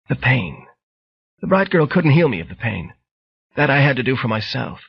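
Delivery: lightly voiced frail old lady; old woman voice. Bright Girl voiced.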